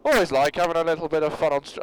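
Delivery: Irish attempt that comes out Scottish; failed Irish, Scottish accent. Reading a stream donation, accidental Scottish accent. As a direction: aim for Irish, land in Scottish. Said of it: "still Scottish".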